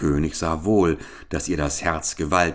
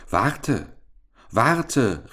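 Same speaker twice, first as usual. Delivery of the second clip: higher-pitched, storybook cry to wait; calling out; 6 semitones higher than usual. A narrator's reading. Frog calls after the fleeing princess, calling out. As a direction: call after someone, acted moderately. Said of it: "rief der Frosch".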